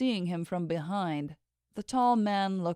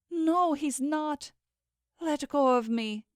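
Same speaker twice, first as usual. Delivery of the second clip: pleading; 8 semitones higher, slower than usual. Acted. Struggling against Kieran's grip.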